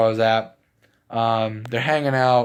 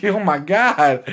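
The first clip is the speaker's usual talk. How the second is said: slow awed; 4 semitones higher, much slower than usual. Retold or imitated. Imagined Broly seeing a woman.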